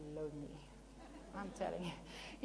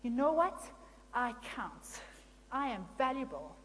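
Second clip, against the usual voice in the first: firm self-affirmation; 5 dB louder than usual. Retold or imitated.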